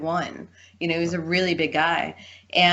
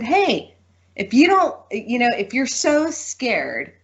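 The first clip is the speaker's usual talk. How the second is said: retold comeback; 6 semitones higher, slower than usual. She snaps back at the guy.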